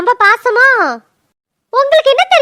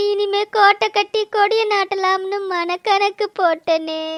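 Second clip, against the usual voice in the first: lament; 5 dB quieter, slower than usual. Acted. Wife laments husband's relapse.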